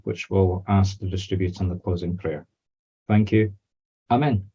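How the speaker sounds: measured, reverent spoken prayer; opening prayer. Real, not acted. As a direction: lead a small circle in prayer.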